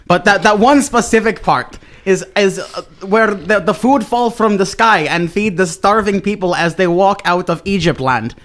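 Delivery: put-on broken-English foreign accent, lightly Irish; a self-important potato prophet with a vague Irish lilt; mock foreign accent. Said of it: "Says the man who sounds Irish".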